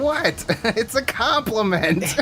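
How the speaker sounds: high, drawn-out defensive squawk; mock-innocent protest. Scolded for talk to women, high indignant protest.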